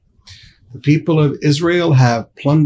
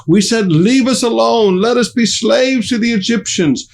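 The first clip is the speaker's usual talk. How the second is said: raised, pleading crowd voice of Israelites; frightened complaint; 5 semitones higher than usual. Acted. Israelites in the desert blaming Moses, raised frightened complaint. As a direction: whine at Moses as the scared people.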